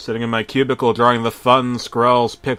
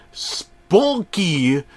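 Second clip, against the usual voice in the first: raised call of Spunky; yelling Spunky; 7 semitones higher, 4 dB louder than usual. Acted. Unseen voice yelling over and over. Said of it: "someone yelling".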